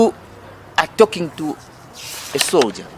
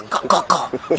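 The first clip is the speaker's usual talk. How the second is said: gun cock noise; 4 dB quieter, slower than usual. Retold or imitated. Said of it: "you make sure he hears".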